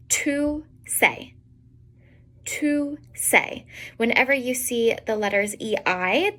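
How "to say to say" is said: "say" with a long A sound; long A ending. Shown as a demonstration. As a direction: draw out the A in "say". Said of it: "pronounced like a long A".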